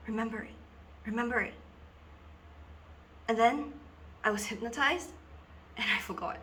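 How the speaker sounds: earnest schoolgirl confiding, halting with long pauses; Dina. Acted. Schoolgirl tells two boys about being hypnotized in assembly, dramatic confiding. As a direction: confide a dawning, troubling realization in dramatic monologue.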